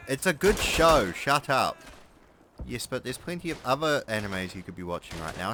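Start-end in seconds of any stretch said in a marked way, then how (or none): 2.7-5.5 a lower, knowing inner voice; voice in my head. Acted. The voice in his head needling him about housework and anime, in a lower knowing tone. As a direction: speak as his own nagging conscience, a bit lower. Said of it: "voice in my head".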